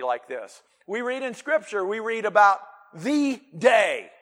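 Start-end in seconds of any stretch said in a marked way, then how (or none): 2.9-4.1 THE drawn out and weighty before "day"; slow, weighty stress on THE. Shown as a demonstration. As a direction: stretch THE like it has a capital letter. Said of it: "capital D".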